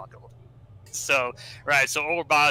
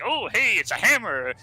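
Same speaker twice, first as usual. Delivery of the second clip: excited Cubot; 5 semitones higher than usual. Retold or imitated. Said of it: "it's like".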